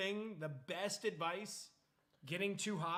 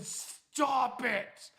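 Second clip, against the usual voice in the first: higher and much louder, insistent; yelled warning; 6 semitones higher, 9 dB louder than usual. Retold or imitated. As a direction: shout it like they're burning his feet. Friend repeating warning, paranoid.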